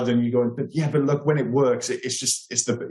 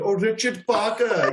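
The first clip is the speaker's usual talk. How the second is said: fake Indian accent, pitched high; 9 semitones higher than usual. Recalling a film where a character keeps calling the tiger, imitating an Indian accent. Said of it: "that Indian accent over and over again".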